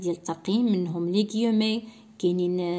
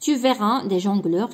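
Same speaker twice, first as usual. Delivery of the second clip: very slow, word by word; slow dictation; 4 dB louder, much slower than usual. Shown as a demonstration. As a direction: spell it out slowly for the class. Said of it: "غادي نديرو بوان". (إملاء بطيء جدا)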